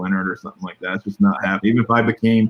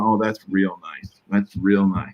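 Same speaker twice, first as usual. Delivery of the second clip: lightly imitated dry approval, slow and low; understated mock praise, slightly drawn out; sarcastic parent; 3 semitones lower, slower than usual. Storyteller voices parents reacting to their son's mishap, understated sarcasm. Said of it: "the sarcastic kind of look".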